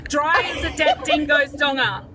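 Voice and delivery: Australian accent. Shown as a demonstration. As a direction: say it like a true-blue Aussie. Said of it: "You've gotta teach them how to say".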